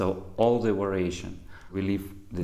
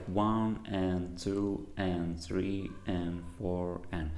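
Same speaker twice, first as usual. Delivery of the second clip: slow, evenly spaced count; measured rhythmic counting; counting the beat; 3 dB quieter, slower than usual. Shown as a demonstration. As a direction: count out the beat steadily with ands between. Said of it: "I will count like".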